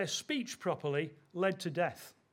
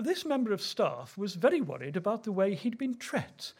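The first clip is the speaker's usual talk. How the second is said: exact Queen's English with a Yorkshire "tret"; a hint of elocution-lesson Queen's English. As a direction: lightly imitate careful Queen's English. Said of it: "spoke very exactly".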